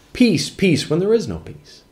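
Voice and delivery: high, sing-song "Peace, peace"; mocking false prophet. Preacher mocking false prophets soothing the crowd, high and sing-song. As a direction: lift it high and sweet, then let it drop. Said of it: "What did the false prophets preach?".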